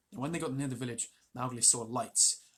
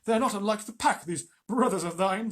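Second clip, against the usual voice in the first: Akela's voice; 7 semitones higher, 8 dB louder than usual. A narrator's reading. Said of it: "that was, um, Akela".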